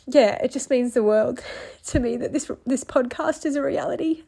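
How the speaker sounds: choked up with a small laugh; tearful. Real, not acted. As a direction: push heartfelt words through crying. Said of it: "Still crying".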